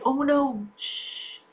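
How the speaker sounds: soft hush, ending in a voiceless shh; hushed warning. Acted. Reader acts out hiding from danger, hushed warning. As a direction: softly shush someone.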